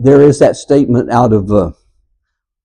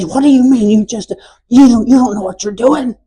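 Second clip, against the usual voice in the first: much higher, mock preacher shout at people; 10 semitones higher than usual. Shown as a demonstration. Preacher demonstrating shouting at his congregation, hammed-up yell. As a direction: yell it like a preacher who lost his point. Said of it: "Just start shouting at people and say".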